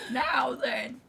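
high cackling witch woman; tiny witch voice. Acted. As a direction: squeeze out a teeny witch voice. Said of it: "You use the teeny tiny witch woman voice".

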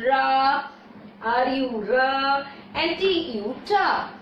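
syllables ra, ru, ra, tu, ta said apart, one by one; sounds spelled out. Shown as a demonstration. Teacher isolating the vowel sounds for the class, slow and separate. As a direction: break "rumbling" and "tumbling" into single sounds. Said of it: "notice the sound of these two words".

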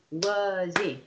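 "wuzzy" split into two clapped beats, wuz-zy; clapped syllables. Shown as a demonstration. Teacher clapping syllables for children, loud and even. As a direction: clap out "wuzzy" beat by beat. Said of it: "Let's clap for wuzzy".

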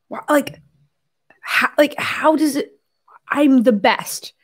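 mock-vain voice; vain self-admiration. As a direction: gush at your own reflection. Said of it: "My God complex slipped in".

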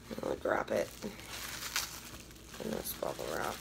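very soft, low ASMR whisper. Pretend. Wrapping the mask in bubble wrap for viewers, ASMR whisper. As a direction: hush it like an ASMR video. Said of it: "A S M R".

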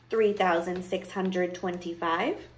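slow, measured count with a rising last word; witch counting. Acted. Witch counts her pieces of gold, absorbed. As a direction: count coins slowly, unhurried.

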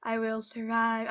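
said out loud and firm; loud vow. Real, not acted. Player vows to survive, loud and firm. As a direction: declare it to the room.

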